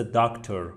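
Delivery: "داکتر" with a short, reduced final vowel; short e sound. Shown as a demonstration. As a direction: say "داکتر" as the English word, light ending. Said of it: "صدای ا، ا کوتاه". (تلفظ «داکتر» با صدای کوتاه در آخر)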